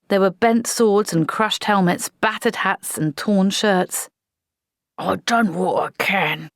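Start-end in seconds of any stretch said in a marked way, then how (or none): 5.0-6.5 sighing. Acted. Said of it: "sighed the corporal".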